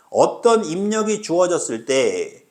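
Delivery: slow read-out, ending in a clean break after "때"; phrase break after 때. Shown as a demonstration. Teacher showing students where to break the sentence, slow phrase break after "때". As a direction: read it slowly as one chunk, stop after "때". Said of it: "끊어".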